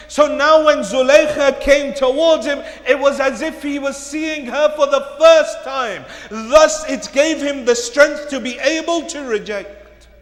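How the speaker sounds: forceful sermon delivery, projected and driving; loud, dramatic retelling from the pulpit; impassioned preaching. Acted. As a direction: preach it out to the whole congregation.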